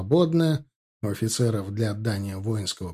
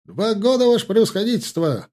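much higher, loud and bright report; ringing exclamation; 10 semitones higher, 6 dB louder than usual. A narrator's reading. Ensign answering the general: high, ringing shout. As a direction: ring out the answer proudly. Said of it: "воскликнул Марков".

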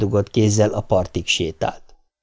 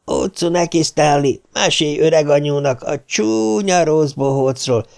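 put-on cackling old granny, pitched higher; 5 semitones higher than usual. Richie plays granny to coax Stan, high and cackly. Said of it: "Az öreg anyu".

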